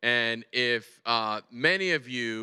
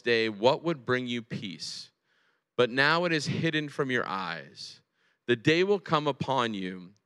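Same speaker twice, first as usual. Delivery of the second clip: solemn scripture reading. A narrator's reading. Reads Jesus' lament from scripture.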